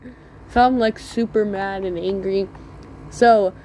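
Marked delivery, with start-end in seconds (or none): 0.1-0.1 high, crying mock whine; whiny complaint. Boy whining at the bee that stung him, high and teary. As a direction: wail like a hurt little kid.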